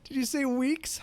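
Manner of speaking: high, disbelieving mock dismay; imitated heartbreak. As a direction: play crushed disbelief, voice lifting into questions. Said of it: "never seen such heartbreak".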